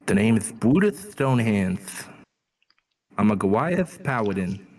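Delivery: lisped character introduction, "Brutus" said with th for s; s softened to th in "Brutus". Pretend. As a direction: introduce "Brutus Stonehand" with a lisp. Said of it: "it sounds like I have a lisp".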